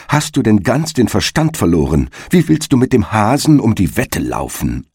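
mild mock yell of disbelief; a touch of yelling. Wife cries out at the hedgehog in alarm. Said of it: "begann die Frau loszuschreien".

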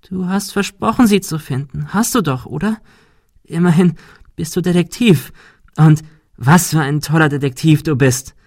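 high, teasing voice of a goat-faced creature; a sly goat beast taunting the detective; mocking goat creature. Pan creature voice taunting Ben.

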